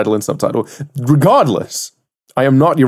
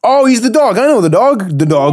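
excited; 9 semitones higher than usual. Real, not acted. Spots the cartoon dog.

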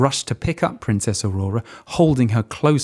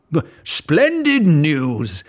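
slow, nervous stutter; a frightened king forcing cheer; stammering king; 5 semitones higher, much slower than usual. Acted. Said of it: "said the king".

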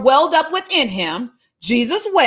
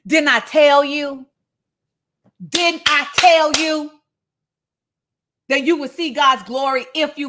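mad; 3 semitones higher than usual. Acted. Jesus scolding Martha for not believing, mad and deliberate. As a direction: drag out each word, pitch lifting on the repeat.

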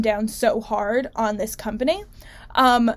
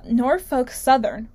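slow, deliberate Norfolk Southern; careful retry; slower than usual. Real, not acted. Host retries the tricky company name, slow and careful. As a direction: spell out Norfolk Southern slowly, syllable by syllable. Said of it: "is Norfolk Southern a tongue twister?".

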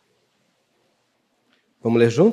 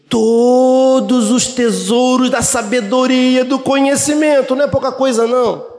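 higher, ringing preacher voice; preaching lift; 10 semitones higher, 5 dB louder than usual. Acted. Pastor exalts the treasures of wisdom, higher and ringing. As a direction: lift it like a pulpit proclamation.

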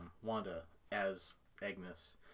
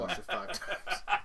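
laughing tease; 10 semitones higher, 3 dB louder, slower than usual. Real, not acted. Teasing joke.

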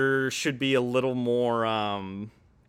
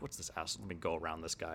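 frustrated; 5 semitones lower, 12 dB quieter, much faster than usual. Acted. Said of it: "like, frustrated".

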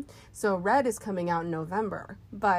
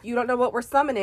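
spooky voice; 4 semitones higher, 5 dB louder, faster than usual. Pretend. Spooky witch music joke.

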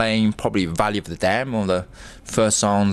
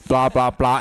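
louder and higher, hold on; indignant interruption; 6 semitones higher, 4 dB louder than usual. Real, not acted. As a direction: stop him mid-line, outraged. Cuts off the scripted intro.

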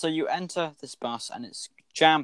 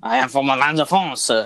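put-on French accent; 4 dB louder than usual. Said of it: "I got the French accent".

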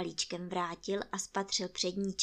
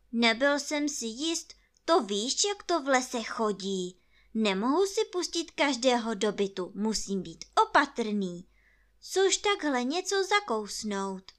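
lightly voiced cautious rabbit, louder; Rabbit explaining himself; 4 semitones higher, 6 dB louder than usual. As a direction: explain carefully, a little higher and louder. Narrator voices Rabbit talking to Pooh.

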